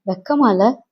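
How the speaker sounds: wife's rising, reproachful question; lightly acted indignation, ending on a rise; indignant reproach. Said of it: "குமுறினேன்". (குமுறலான கேள்வி)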